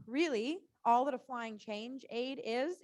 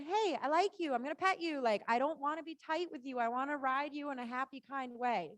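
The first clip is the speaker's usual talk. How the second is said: friendly to horse. Shown as a demonstration. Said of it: "But then".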